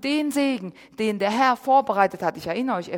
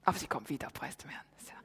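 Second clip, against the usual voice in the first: hushed aside about the absent singer; whisper; 9 semitones lower, 16 dB quieter, much faster than usual. Real, not acted. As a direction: breathe it almost to yourself. Quiet aside missing the worship leader.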